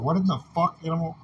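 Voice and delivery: high, loud disbelieving yell; outraged shout. Real, not acted. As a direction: blast it out in disbelief. Outraged rant at someone.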